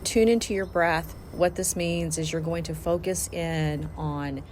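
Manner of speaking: measured, instructional relaxation voice; guided meditation. Acted. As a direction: talk them through each step, pausing between cues. Leads a guided body-scan meditation.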